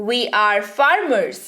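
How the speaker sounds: slow, careful model sentence; slow dictation. Shown as a demonstration. Teacher dictating to students, slow. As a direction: let every word land slowly. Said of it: "teacher models English sentence".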